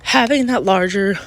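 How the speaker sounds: congested, breathing through the mouth; heavy breathing. Real, not acted. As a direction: talk while breathing heavily through a blocked nose. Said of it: "sorry for my, like, heavy breathing and stuff".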